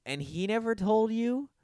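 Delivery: very high, incredulous outburst; mock outrage. Podcaster yelling at Laurie for not knowing, very high and incredulous. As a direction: scold Laurie in disbelief. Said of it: "I'm just like".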